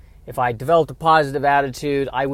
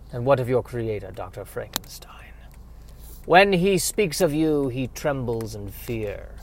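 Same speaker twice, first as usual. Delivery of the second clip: lightly voiced dramatic questioner, dropping to a hush; a hint of a solemn inquisitor, slowing down; grave interviewer; 4 dB quieter than usual. Interviewer asking the monster about Frankenstein, hushed and ominous.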